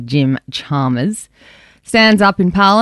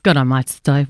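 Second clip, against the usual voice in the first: put-on Aussie accent; 3 semitones lower than usual. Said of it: "I was like".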